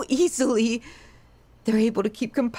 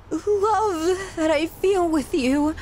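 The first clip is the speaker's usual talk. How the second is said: teary. Acted. Confessing love, voice cracking.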